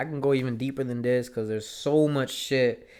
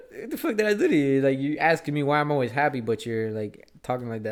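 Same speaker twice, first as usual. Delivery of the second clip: indignant disbelief; 3 semitones higher, 5 dB louder than usual. Retold or imitated. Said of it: "That's what I was thinking".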